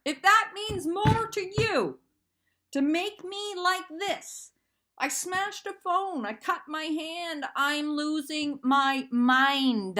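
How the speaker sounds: pleading, falling apart; distraught outburst. Real, not acted. Venting to viewers about her ex, slow distraught outburst.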